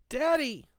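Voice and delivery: put-on high, loud child calling Daddy; out-loud cry. A narrator's reading. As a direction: blurt it out in a little girl's high voice. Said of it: "Catherine said out loud".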